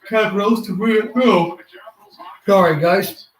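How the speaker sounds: cracking voice from yawning. Real, not acted. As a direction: voice breaks mid-yawn. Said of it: "Voice crack on your screen?".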